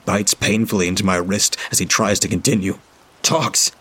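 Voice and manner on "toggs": yelled name, high and urgent; shout. A narrator's reading. Narrator shouting to Toggs to stop. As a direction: call out his name sharply. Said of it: "I shout".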